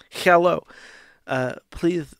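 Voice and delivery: faltering fake Mexican accent; half-hearted Mexican accent attempt. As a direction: try out a Mexican accent hesitantly. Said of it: "I can't do a racist Mexican accent".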